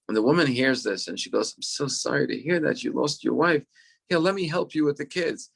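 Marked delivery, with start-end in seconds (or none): 1.6-5.5 higher-pitched sympathetic retelling; sweet and kind. Retold or imitated. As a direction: gently voice a woman suddenly offering help. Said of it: "she's sweet and kind and loving".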